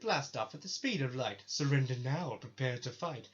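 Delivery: punchy, theatrical bad-guy recital; Team Rocket. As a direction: declaim it as a badly faked villain impression. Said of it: "sorry about the terrible impressions".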